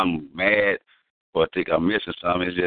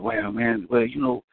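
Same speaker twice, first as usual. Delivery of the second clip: nervous stammering guy; 5 semitones higher than usual. Retold or imitated. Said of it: "Why is we talking like this?".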